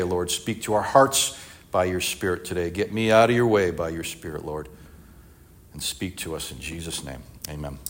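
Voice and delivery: earnest spoken prayer to God. Acted. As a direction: pray it sincerely, slowing into the amen. Pastor prays before the text.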